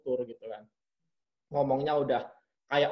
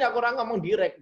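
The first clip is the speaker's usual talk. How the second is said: higher and fast, blunt and straight to the point; a touch of blunt German delivery, quick and higher; direct German manner; 8 semitones higher, 4 dB louder, faster than usual. Shown as a demonstration. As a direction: show how Germans talk, no softening. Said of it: "intonasinya juga orang Jerman kayak gini".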